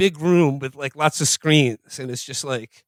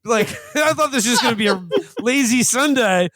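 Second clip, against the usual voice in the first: mock annoyance; 7 semitones higher than usual. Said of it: "it's just like".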